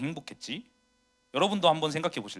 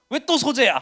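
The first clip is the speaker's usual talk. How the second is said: louder, higher, exasperated 왜 또 소재야; mock-angry complaint about the assignment; annoyed outburst; 8 semitones higher, 8 dB louder than usual. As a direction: blurt it out, fed up. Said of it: "화가 막 나요".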